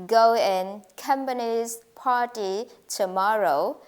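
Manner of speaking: "going company's party tomorrow" slowly, each word stressed; stressed content words. Shown as a demonstration. Teacher listing the content words for students, each stressed. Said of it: "these words should be stressed".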